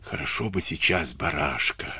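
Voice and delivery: soft, wistful musing; quietly longing, as if thinking aloud; dreamy. A narrator's reading. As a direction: say it dreamily, voice softened. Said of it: "мечтательно поделился Дениска".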